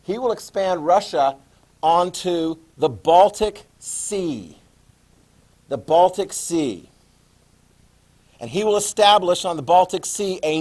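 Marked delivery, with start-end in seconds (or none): 1.8-4.6 Baltic Sea spoken slowly, stress on Baltic; slow it right down so they can note Baltic Sea; slow stressed dictation. Shown as a demonstration. Teacher spelling out a place for note-taking, slowly stressed. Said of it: "Make sure you write that down". 5.7-6.9 The Baltic Sea repeated slowly, stress on Baltic; slow repeated dictation. Shown as a demonstration. Teacher repeating the place name for students, slow and stressed. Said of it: "Make sure you write that down".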